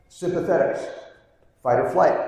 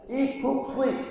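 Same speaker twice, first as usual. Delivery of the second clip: high but softer echo of the list; softer repeat; 9 semitones higher, 5 dB quieter, slower than usual. Shown as a demonstration. Lecturer echoing the list softly to the room. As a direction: let the three words drop back, quieter. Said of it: "What are the three things".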